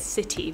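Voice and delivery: city with a true T. Shown as a demonstration. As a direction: pronounce the T in city clearly. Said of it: "with a kind of T".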